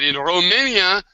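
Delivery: a hint of a Romanian accent on the quote. Quoting V about his country, light Romanian accent. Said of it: "I just love his accent".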